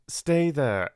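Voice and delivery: urgent plea down the phone. Acted. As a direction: pin her in place with it. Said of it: "he said urgently".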